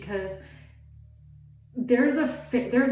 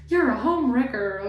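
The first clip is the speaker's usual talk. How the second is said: mock accusation; 3 semitones higher, 5 dB louder than usual. Women accusing the new partner.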